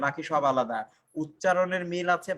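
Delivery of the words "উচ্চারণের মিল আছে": "উচ্চারণের মিল আছে" said slowly, word by word, for the class; slow it down so students catch it; slow emphatic repeat. Shown as a demonstration. (ধীরে, জোর দিয়ে বলা)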